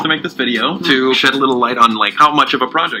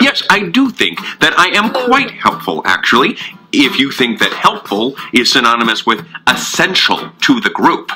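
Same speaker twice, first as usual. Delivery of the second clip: smug Logan puppet. Acted. Logan puppet coolly asserting his own importance. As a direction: correct him coolly.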